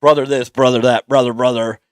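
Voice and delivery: put-on rough New York wrestling-guy accent; hammed-up New York accent; attempted Yankee accent. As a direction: punch every "brother" in a shaky Yankee accent. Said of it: "I was trying to get my, uh, Ya-, Yankee accent".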